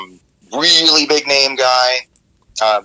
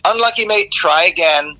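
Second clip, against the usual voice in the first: sarcastic; 6 semitones higher than usual. Retold or imitated. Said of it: "really sarcastically after a while".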